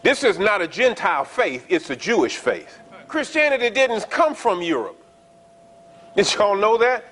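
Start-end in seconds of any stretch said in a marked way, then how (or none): 0.0-5.0 emphatic preacher's declaration, each statement landed firmly. Real, not acted. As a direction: drive the point home to the congregation. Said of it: "let me say it emphatically for you".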